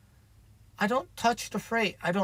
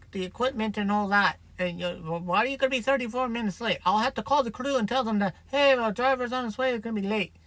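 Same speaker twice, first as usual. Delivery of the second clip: imitating female caller; 3 semitones higher than usual. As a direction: mildly mimic a client querying a late driver. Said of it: "That wasn't her accent. It was".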